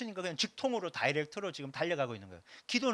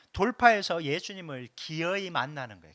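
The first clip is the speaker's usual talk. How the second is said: firm declaration; 5 dB louder than usual. Shown as a demonstration. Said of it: "뚫고".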